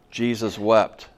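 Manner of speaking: short, firm declaration, then stop dead; retold funeral reading, announced plainly; bare scripture reading. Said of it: "Read the scripture".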